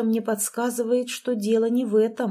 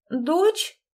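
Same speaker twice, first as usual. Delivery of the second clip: high squeak of shock; 9 semitones higher than usual. Acted. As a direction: squeak the word out in disbelief. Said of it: "пискнула Деля".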